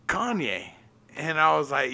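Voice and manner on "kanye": higher, softer doggy voice; dog's answer. Retold or imitated. Owner voicing his dog's pick for president, higher doggy voice. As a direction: answer as the dog, pitched up. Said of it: "And she goes".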